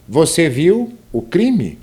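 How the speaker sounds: slow, deliberate question, "Você viu o crime?"; question intonation. Shown as a demonstration. Teacher gives an example question, "Você viu o crime?", slow questioning tune. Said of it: "é uma pergunta".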